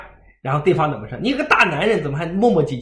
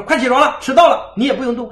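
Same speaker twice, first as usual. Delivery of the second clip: louder, higher mock call to wake up; mother calling out; 8 semitones higher, 5 dB louder than usual. Mother calls a sleeping child, mock louder nagging. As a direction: hurry the child up, lightly voiced nagging mother.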